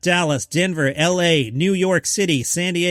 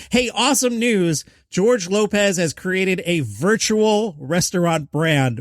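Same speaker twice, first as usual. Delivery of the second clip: excited announcement; 4 semitones higher, slower than usual. Acted. Hyped news read.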